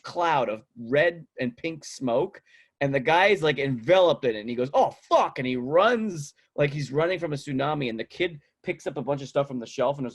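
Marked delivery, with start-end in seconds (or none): 4.7-5.4 high startled curse; mock panic. Man engulfed in smoke before he runs, mock panic. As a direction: act out a sudden fright, pitched up.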